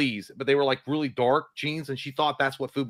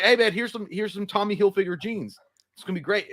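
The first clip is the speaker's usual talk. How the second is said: uncle, mock mad; 7 semitones higher than usual. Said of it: "no, he was mad".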